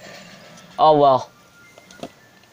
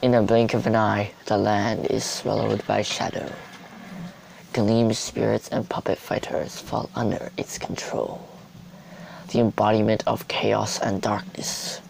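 epic announcer; 6 dB quieter than usual. Shown as a demonstration. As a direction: narrate it like a movie trailer. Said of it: "I could sound like an epic announcer".

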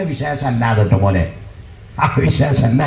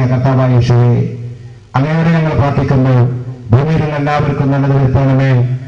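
imitated Christian prayer. Preacher imitating a Christian family at evening prayer, intoned. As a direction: lightly imitate praying aloud to Jesus. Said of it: "പ്രാർത്ഥിക്കുക".

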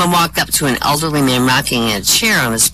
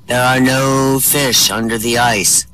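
booming voice; 4 semitones lower, slower than usual. Acted. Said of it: "here's this booming voice".

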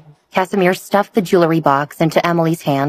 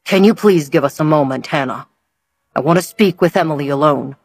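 soft-spoken. Acted. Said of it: "Hugh spoke softly".

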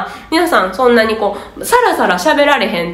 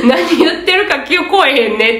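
quoting the crowd with a chuckle; a bemused, laughing agreement; laughing mock grumble; 4 semitones higher than usual. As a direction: examinees grumbling to each other, laughing. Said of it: "って周りで".

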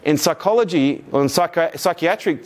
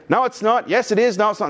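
mock bickering; 5 semitones higher than usual. Acted back-and-forth quarrel.

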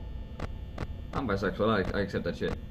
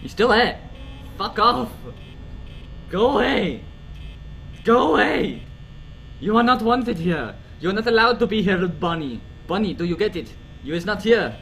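scared slip into a French accent; indignant, nervous French-accented scolding. Real, not acted. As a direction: order them away in a French accent. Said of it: "I don't know why I go French".

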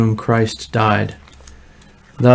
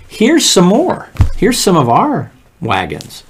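eager offer; 7 semitones higher, 3 dB louder than usual. Acted. Pharaoh offering wagons, voiced.

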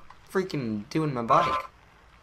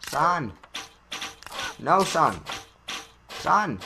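calling out; 3 semitones higher, slower than usual. Real, not acted. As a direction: shout after him. Calling out to the racer.

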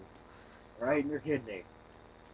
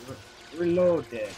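put-on Russian accent; 3 semitones higher, 4 dB louder, much slower than usual. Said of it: "Like my Russian accent".

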